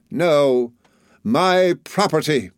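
high, emphatic retort; fierce aunt. A narrator's reading. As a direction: insist slowly on what is yours. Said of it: "returned my aunt".

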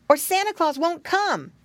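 piglet brother's high warning; high child voice, bossing a sibling; Curly Tail. A narrator's reading. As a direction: warn like a little boy pig. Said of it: "called Curly Tail".

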